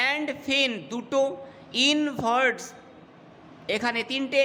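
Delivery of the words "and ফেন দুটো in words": "and ফেন" and "in words" as separate, drawn-out feet; divided into feet. Shown as a demonstration. Teacher showing how to divide verse, "and ফেন", "in words" spaced out. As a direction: pause between "and ফেন" and "in words". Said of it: "এইভাবেই তোমাকে ভাগ করতে হবে".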